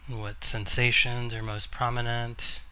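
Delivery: measured meditation guidance with long pauses; guided meditation. Acted. Teacher guiding a seated group into noticing the body, calm meditation voice. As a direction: gently guide listeners inward, leaving long silences.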